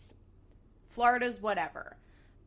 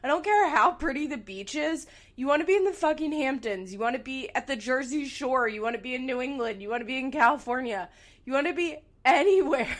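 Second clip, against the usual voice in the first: loud, high, exasperated yelling at the TV; indignant outburst, driving through the list; retold scream; 5 semitones higher, 7 dB louder than usual. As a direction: rail at a commercial in mock outrage. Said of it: "I saw that commercial and screamed".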